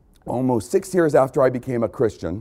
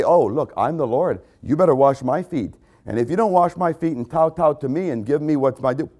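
mock arrogant lord. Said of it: "I didn't say".

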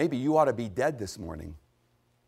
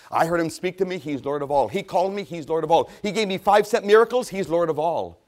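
loud, building declaration, higher on each new claim; fervent testimony; 5 semitones higher, 7 dB louder than usual. Acted. Preacher voices crucified Peter's testimony, fervent and loud. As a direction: proclaim each claim more forcefully.

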